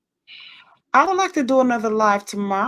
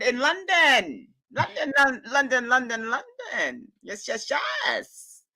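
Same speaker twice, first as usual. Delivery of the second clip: gleeful repetition; 2 semitones higher, slower than usual. Real, not acted. Gleeful repeating of travel destination.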